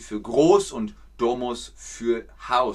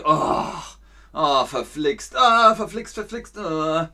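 rising frustrated outburst, higher and louder; exasperated exclamation; 4 semitones higher, 5 dB louder than usual. Shown as a demonstration. Teacher acts out a spill, exasperated outburst. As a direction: cry out at a spill. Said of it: "Ihr wollt was aus dem Glas schütten".

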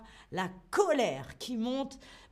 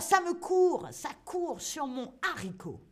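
emphatic repeat; 3 semitones higher, 3 dB louder than usual. Shown as a demonstration. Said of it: "répète l'expression avec emphase".

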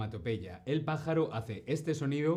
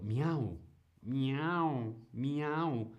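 cat meow; much slower than usual. Shown as a demonstration. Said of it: "O el gato".

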